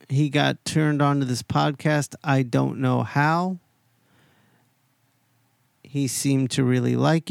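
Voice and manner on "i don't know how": slow, drawn-out mock wonder; slow deadpan bafflement; joking puzzlement. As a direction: stretch it out as a teasing aside. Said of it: "I'm just kidding".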